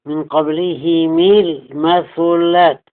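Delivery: قبلهم المثلات linked as qablihimi-l-mathulaat; slow recital, "i" vowels on both h and m of قبلهم; kasra on haa and meem. Shown as a demonstration. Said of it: "بكسر الهاء والميم".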